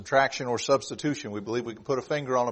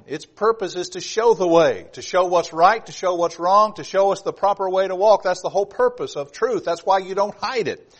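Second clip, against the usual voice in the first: higher-pitched, insistent sermon delivery; emphatic preaching; 5 semitones higher, 3 dB louder than usual. Acted. Preacher explaining the purpose of truth, emphatic preaching. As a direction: press each point on the congregation.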